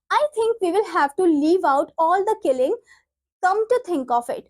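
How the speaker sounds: slow, deliberate textbook read-aloud; measured classroom reading. Acted. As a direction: read the script out slowly, word by word. Reads play lines aloud.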